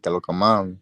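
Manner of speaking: lightly demonstrated Dominican Spanish greeting; Dominican accent. Shown as a demonstration. Showing friend how Dominicans sound, Dominican accent. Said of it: "Like that".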